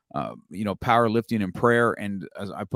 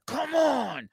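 mock hype. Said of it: "And I'm just like".

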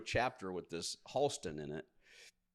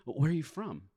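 asker voice; 6 semitones higher, 4 dB louder than usual. Pretend. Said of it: "the British thing".

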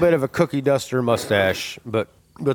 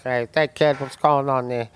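put-on old guy voice. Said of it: "sounds kinda like an old guy".

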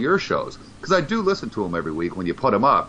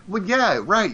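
sarcastic; 10 semitones higher, slower than usual. Acted. Mocking a Facebook commenter.

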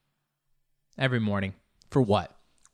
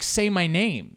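pleading for my name; 7 semitones higher, 4 dB louder, slower than usual. Retold or imitated. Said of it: "there's a part of me that's like".

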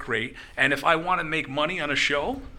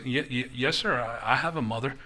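low, soft, stammering reply; timid kid imitation; 3 semitones lower, 7 dB quieter than usual. Waiter answering Tommy Rich about mother, meek stammering imitation. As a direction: hesitate meekly through the imitated answer. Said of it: "And the kid goes".

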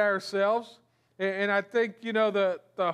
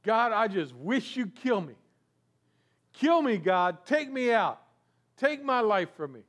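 mock despair. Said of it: "his pity party goes so bad".

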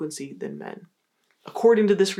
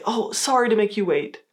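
negative apology; 2 semitones higher than usual. Shown as a demonstration. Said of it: "negative way of doing this is to say".

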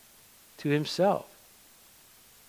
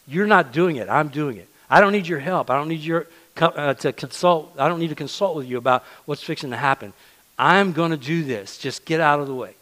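louder, firm and emphatic; God telling Moses to get out of the way, firm and louder; stern dismissal; 4 dB louder than usual. Acted. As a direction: tell him to step aside, no arguments. God voiced rebuking Moses.

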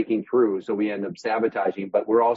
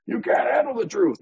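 Tom Cruise line; 12 semitones higher than usual. Retold or imitated. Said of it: "the Tom Cruise line".

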